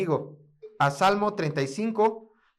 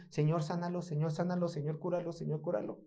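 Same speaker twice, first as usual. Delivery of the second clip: soft, pleading murmur to the Lord; whisper-close repeated pleading; quiet repeated prayer; 7 dB quieter than usual. Retold or imitated. Repeated prayer voiced for David.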